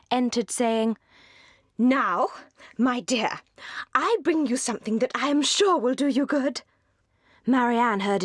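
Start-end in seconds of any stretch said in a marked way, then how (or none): 1.8-6.6 high, chattering busybody matron; high-pitched Mrs Jennings, delighted with her news; gossiping old matron. A narrator's reading. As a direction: relish the gossip like a meddling old lady. Mrs Jennings voice bringing letter.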